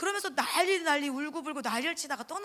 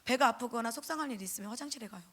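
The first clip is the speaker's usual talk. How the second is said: normal talking voice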